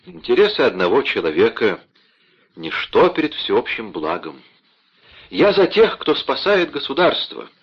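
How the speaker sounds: puffed-up, self-important proclamation; pompous declaration. Acted. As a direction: announce it like a blustery official. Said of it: "напыщенно произнёс Бонасье". (напыщенно, с важным видом)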